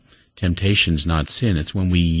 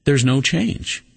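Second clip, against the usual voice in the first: astonished doctor; 8 semitones higher than usual. Retold or imitated. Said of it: "he gasped".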